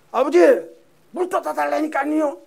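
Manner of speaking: loud, high-pitched nagging shout; cheeky insistent son. Acted. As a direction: holler demandingly at your father. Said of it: "아주 간이 보세요".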